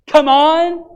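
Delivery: high loud encouraging shout; call-out. Retold or imitated. Churchgoer egging on the preacher, high loud shout. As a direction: egg the preacher on.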